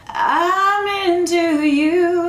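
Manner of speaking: a creaky fry on "I'm"; vocal fry. Shown as a demonstration. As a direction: start "I'm" with a glottal fry. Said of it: "That's a vocal fry".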